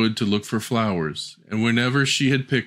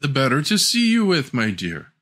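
sly wolf; 4 semitones higher than usual. Acted. Wolf in disguise answers.

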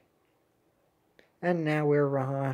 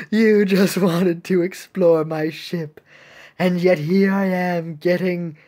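theatrical ship captain; 6 dB louder than usual. Acted. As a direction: draw the words out grandly. Reads game character's line.

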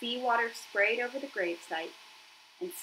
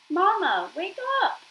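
high, loud desperate cry to wake her; frantic shout; 11 semitones higher, 8 dB louder than usual. Acted. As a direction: shout for your mother to wake. Gosling wakes his rebooting mother.

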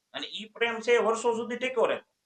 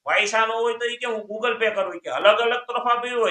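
mock scolding grandfather; 4 semitones higher, 5 dB louder than usual. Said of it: "grandfather scolds on phone".

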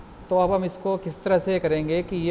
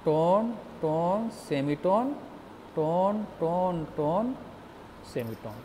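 slow recitation; 4 dB quieter, slower than usual. Shown as a demonstration. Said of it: "हमारा formula बदल के क्या हो गया?".

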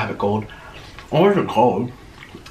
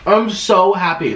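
happy; 4 semitones higher, slower than usual. Real, not acted. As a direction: say it with glee.

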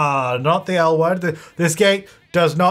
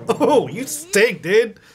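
ghost horse voice; 3 semitones higher than usual. Acted. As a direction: voice the horse, giggling through it. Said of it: "Flame's like".

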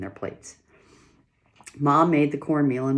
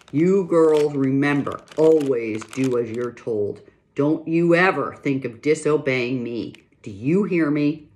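loud, slow, stern warning; terrible voice; 2 semitones higher, 7 dB louder than usual. Acted. Pa warning his girls to always obey, loud slow stern voice. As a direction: lay down the law slowly and firmly. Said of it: "Pa said in the terrible voice".

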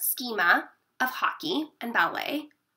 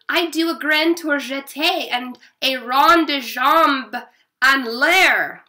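put-on excited child; 3 semitones higher, 6 dB louder, slower than usual. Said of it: "Look, Mama".

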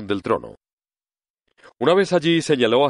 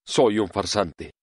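pleased admission; slower than usual. Acted. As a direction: admit it with a hint of satisfaction. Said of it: "como si aquello le complaciera".

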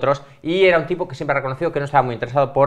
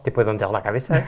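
put-on French accent; faster than usual. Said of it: "yo intentaré poner acento francés".

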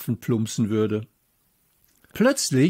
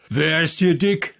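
angry shout; 5 semitones higher, 4 dB louder than usual. A narrator's reading. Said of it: "rief der dicke Junge".

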